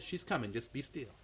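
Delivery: very soft and low; calm, quiet answer to prayer; hushed divine reassurance. Retold or imitated. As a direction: imitate a still, small voice. Holy Spirit answers him, acted.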